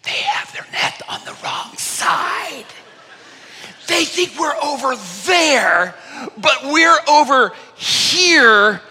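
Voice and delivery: high, sneaky giggling fish voice; mock fish laughing at the net. Fish hiding under the boat, high and giggly. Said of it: "fish under there going".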